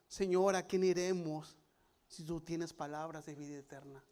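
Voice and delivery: scripture reading. Shown as a demonstration. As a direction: read it calmly from the page. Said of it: "read from the Bible".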